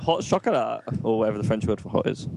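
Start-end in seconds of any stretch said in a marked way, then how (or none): 0.0-0.8 higher-pitched, questioning imitation; imitated eager misunderstanding. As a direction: echo the wrong word back brightly. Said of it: "And she was like".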